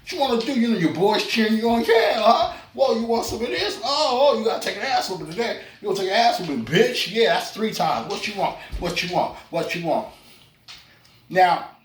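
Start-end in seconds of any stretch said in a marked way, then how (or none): 0.0-0.5 mock-tough taunt. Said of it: "I'm like". 1.8-10.1 hyped cheering. Retold or imitated. Boys cheering him on.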